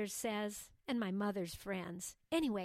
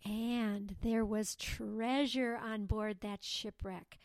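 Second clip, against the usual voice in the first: slow, with deliberate pauses; slow it down, pausing for effect; slower than usual. Acted. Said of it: "Lucinda suddenly slowed her speech, deliberately pausing".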